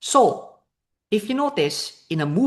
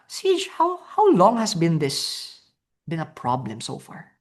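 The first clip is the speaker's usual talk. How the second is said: caring tone. Shown as a demonstration. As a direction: gently ask about their problem. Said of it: "the caring tone".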